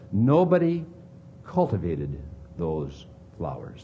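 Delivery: preacher's hushed emphasis; emphatic. Acted.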